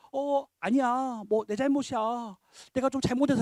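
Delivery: slow, drawn-out sheepish backing down. Acted. Weaker man backs down before a stronger one, sheepish. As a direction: act out an embarrassed, meek apology, stretching the words. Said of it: "하고 겸연쩍 하는 겁니다".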